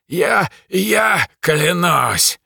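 slow, stammering high demon croak; demon rasping. Acted. Beaten demon swears loyalty to the mage, slow stammering croak. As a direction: force the oath out, broken and beaten. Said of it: "прохрипело облако".

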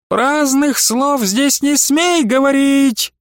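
повыше и медленно, строго унимая; осади её строгим голосом; строгий окрик. A narrator's reading. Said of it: "унимала визжавшую Иларию матрёнушка". (строгий окрик матрёнушки)

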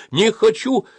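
very high, loud refusal; protesting yell. A narrator's reading. Boy refuses his leader's order, yelling. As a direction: shriek the refusal. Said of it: "закричал я".

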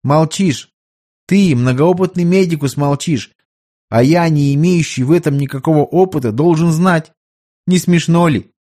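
put-on mildly scolding young emperor; young emperor, chiding. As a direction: needle the silent doctor as his impatient sovereign. Young emperor chides the doctor.

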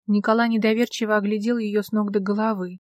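ordinary delivery, nothing marked

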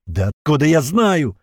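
slow, loud exasperated outburst; exasperated shout. A narrator's reading. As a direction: snap back in exasperation. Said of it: "в сердцах крикнул он".

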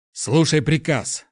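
slow, high shouted command; shouting. A narrator's reading. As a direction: bark the order across the tent. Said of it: "закричал герцог Астрель".

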